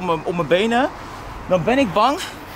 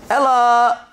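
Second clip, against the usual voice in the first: calling out; 5 semitones higher, 4 dB louder, much slower than usual. Real, not acted. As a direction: call her name loudly. Calling his girlfriend from afar.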